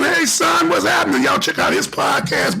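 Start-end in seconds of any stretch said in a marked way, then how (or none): 0.0-1.2 excited shout-out. Real, not acted. Host greeting his son live on air, high excited call. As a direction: call out to him like a proud dad.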